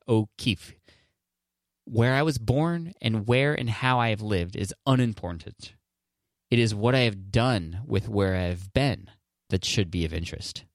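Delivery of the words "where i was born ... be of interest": measured reading of a closing quote. Acted.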